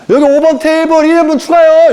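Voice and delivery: high, loud restaurant call across the room; a bustling server calling out an extra portion; waiter calling out. Acted. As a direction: shout the order to the kitchen. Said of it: "이러고 있고".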